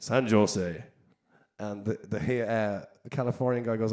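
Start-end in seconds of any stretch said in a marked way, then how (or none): 0.0-0.8 "San Jose" with J as in Joe; Irish accent, hard J. Acted. Irishman telling the Californian, "San Jose" said with a hard Irish J. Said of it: "In an Irish accent, he said".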